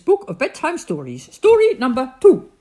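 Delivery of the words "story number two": hushed story whisper. Acted. Announcing the story number.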